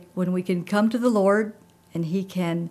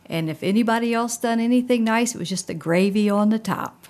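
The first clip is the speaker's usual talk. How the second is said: Beth Moore's Southern voice; 4 semitones higher, 5 dB louder than usual. Retold or imitated. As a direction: quote it in a raised Southern voice. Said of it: "then in that Southern voice, she would say".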